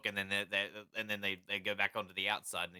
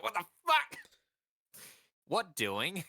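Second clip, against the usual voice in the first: squeaky-high little fish voice; unnaturally high-pitched; 9 semitones higher, slower than usual. Acted. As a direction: pitch it way up like a startled tiny fish. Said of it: "It's, like, an unnaturally high vo-, high-pitched voice".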